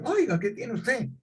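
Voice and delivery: high, slow mock-indignant young woman; girl's indignant question. Girl outside the gym asks the winking man, indignant and slow. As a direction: act out the offended girl demanding an answer.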